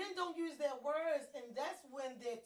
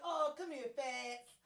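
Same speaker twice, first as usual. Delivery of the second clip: cooing comfort; 3 semitones higher, slower than usual. Retold or imitated. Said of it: "at first I used to be like".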